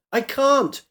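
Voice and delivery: high, choked cry; gurgled shout. Acted. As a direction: shout through a mouthful of water. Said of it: "She gurgled a shout".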